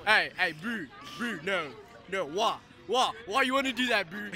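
imitated Boys High school accent; playful mock Boys High accent. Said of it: "without a Boys High accent".

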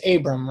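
Abram said the familiar way, AY-brum; everyday AY-brum for Abram; common pronunciation of Abram. Shown as a demonstration. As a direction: say Abram with a long A first. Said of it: "so his original name was".

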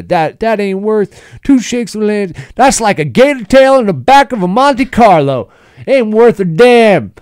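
high, loud Southern twang, slowing at the end; Southern hick sayings. Pretend. S0 as Big Earl rattling off folksy sayings, loud Southern twang. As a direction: spout country sayings with a twang. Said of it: "this Southern Midwest guy".

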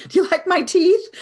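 high, loud, bursting with laughter; asking through delighted laughter; laughing. Retold or imitated. Patient beaming as he shows the doctor his teeth, laughing.

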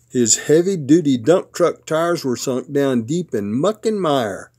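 lively storybook narration with punched words; picture-book read-aloud. A narrator's reading. Papa reads a truck book to his grandsons, animated storytelling. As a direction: read it playfully to small children.

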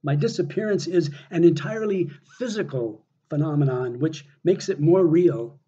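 measured poetry reading with deliberate pauses; earnest spoken poem, broken into short phrases; poem recitation. Acted. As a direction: read your own poem to an audience, weighing each phrase. Reads own poem aloud.

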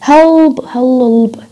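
"help" with a dark, drawn-out L. Shown as a demonstration. Teacher giving an example of dark L before consonants, dark L in "help". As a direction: hold a heavy dark L in "help". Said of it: "بيستخدموا dark before consonants".

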